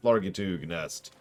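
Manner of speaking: slow, grand royal pronouncement; lordly grandeur. Retold or imitated. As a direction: proclaim it like a false queen. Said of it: "a pretender would show online, like".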